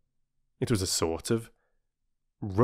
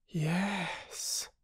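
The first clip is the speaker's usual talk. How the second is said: slow; 9 semitones higher, 9 dB quieter than usual. A narrator's reading. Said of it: "said Peter slowly".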